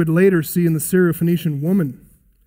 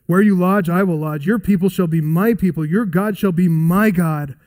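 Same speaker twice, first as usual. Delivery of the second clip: tender vow. Acted. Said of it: "what Ruth told Naomi".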